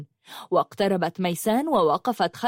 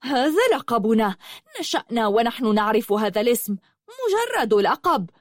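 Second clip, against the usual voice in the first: angry growl; 3 semitones higher than usual. Acted. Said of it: "دمدمت ياقوت غاضبة وقالت".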